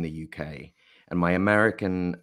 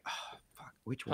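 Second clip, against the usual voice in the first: mock dread; 6 semitones higher, 12 dB quieter than usual. Retells his dread at casting breakdowns.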